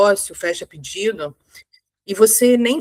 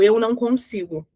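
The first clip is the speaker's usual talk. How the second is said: saying "Eu não consigo" closed off and deflated; "Eu não consigo" with the chest closed, no energy; defeated tone. Shown as a demonstration. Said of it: "a forma que eu falo já é diferente".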